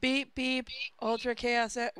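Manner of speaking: beeping car computer robot voice. Acted. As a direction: speak like a machine. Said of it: "in a robot voice said".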